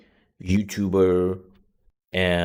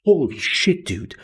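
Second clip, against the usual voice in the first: shocked; 9 semitones higher, 5 dB louder than usual. Retold or imitated. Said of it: "And it's like".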